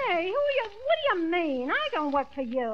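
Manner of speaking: high indignant outburst. Acted. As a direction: bristle at the insult. Secretary indignant at insults.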